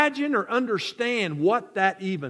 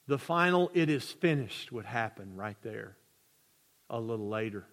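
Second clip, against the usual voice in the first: much softer and lower; hushed sermon; 10 semitones lower, 8 dB quieter than usual. Acted. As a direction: let it sink to a hush. Preacher drops to near hush.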